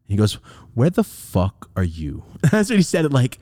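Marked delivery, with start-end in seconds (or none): 0.7-2.2 slow, measured angry demand; mad dad. Retold or imitated. Dad on phone to runaway son, mad. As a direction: imitate a mad father, spacing out each word. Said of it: "I could tell he was mad".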